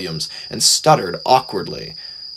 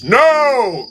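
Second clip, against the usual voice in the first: much higher, emphatic no; no with feeling; 13 semitones higher, 4 dB louder than usual. A narrator's reading. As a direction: refuse again with real feeling. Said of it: "Gordon repeated with feeling".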